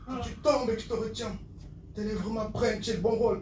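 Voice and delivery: verse starting to settle; easing slam recital. Acted. Poet addresses the one who falls, easing slam. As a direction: ease back from the climax.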